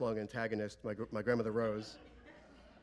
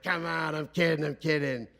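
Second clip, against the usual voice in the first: raised, loud, jokey reassurance; jovial backpedal; 4 semitones higher, 6 dB louder, slower than usual. Retold or imitated. Father with arm round De Niro, loudly joking. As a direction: imitate a father laughing off his own cheek.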